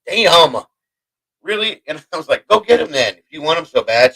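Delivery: high-pitched, incredulous comeback; exasperated retort. Retold or imitated. Husband balking at wife wanting cookies, exasperated. Retold irritation at cookie request.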